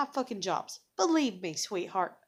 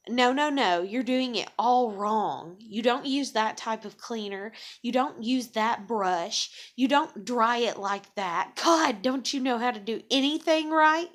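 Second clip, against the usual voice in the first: mock scolding, louder and building; scolding manager; 5 dB louder than usual. Imitating a manager scolding a coworker, building louder. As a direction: play the nagging boss chewing out a worker. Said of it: "the other one's like".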